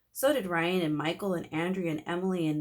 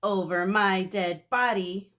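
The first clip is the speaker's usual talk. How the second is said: slow, loud, mild monster defiance; lightly voiced mummy; defiant villain; 6 dB louder, slower than usual. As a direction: snarl back defiantly. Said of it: "Marvin said".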